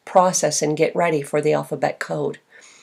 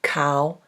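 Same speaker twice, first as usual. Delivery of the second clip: put-on "Cowboy" broken into cow, pause, boy; softer "Cowboy" with a wide gap between syllables; 3 semitones lower, 5 dB quieter than usual. Shown as a demonstration. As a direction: count out both halves of "Cowboy". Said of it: "Yes, there are two".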